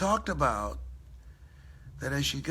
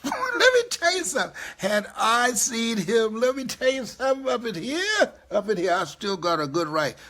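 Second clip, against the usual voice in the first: louder, mock-tough boast; loud playful bravado; 8 semitones higher, 5 dB louder than usual. Bragging to the audience he still has a good right, loud and playful. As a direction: puff up and brag, half joking.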